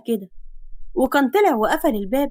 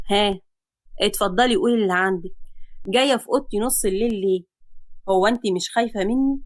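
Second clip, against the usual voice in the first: lower, calm man's voice; cool hero; 3 semitones lower than usual. Acted. Man questioning girl at midnight, cool. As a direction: ask her coolly.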